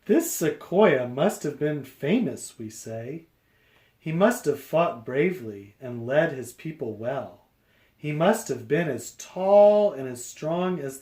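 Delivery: lively picture-book read-aloud; reading to children. A narrator's reading. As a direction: read it out to a class.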